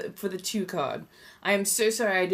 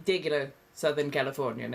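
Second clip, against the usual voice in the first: lower, regular Southern California accent; Southern Californian accent; 4 semitones lower than usual. Shown as a demonstration. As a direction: drop into an everyday SoCal accent. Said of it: "My regular accent is".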